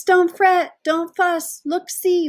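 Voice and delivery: high, loud squeaky mouse voice. Acted. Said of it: "Mouse squeaks".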